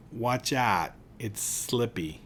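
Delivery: slow Pittsburgh "slippy" warning. Shown as a demonstration. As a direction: warn about the ice, yinzer style. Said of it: "That's what they say when there's ice".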